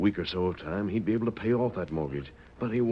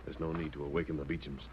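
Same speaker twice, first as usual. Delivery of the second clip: whispered fury; 2 semitones lower, 6 dB quieter than usual. Acted. Night visit, don't wake Beechams.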